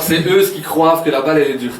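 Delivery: joking Walloon accent, a laugh at the end; accent wallon. Shown as a demonstration. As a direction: play up the Walloon regional sound. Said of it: "C'est la particularité de la Wallonie". (accent wallon, en plaisantant)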